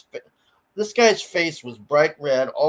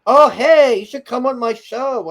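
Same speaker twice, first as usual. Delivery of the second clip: imitating him; 8 semitones higher, 6 dB louder than usual. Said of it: "he's like".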